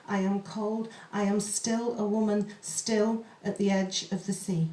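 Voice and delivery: slow, measured poetry reading; poem reading. Acted. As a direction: read the pantoum slowly, hauntingly. Reads a pantoum aloud.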